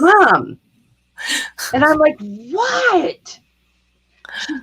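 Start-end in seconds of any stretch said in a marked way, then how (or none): 0.0-0.6 put-on high, pressed "Mom" of a fed-up teen; exasperated daughter. Daughter scolds mom, mock exasperated "Mom". 2.2-3.4 high, innocent "What?"; mock innocent. Mother feigns surprise to daughter, high innocent "What?".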